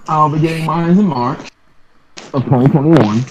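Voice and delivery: distant, muffled mic sound; talking from across the room; far from mic. Real, not acted. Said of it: "You sound, uh, far".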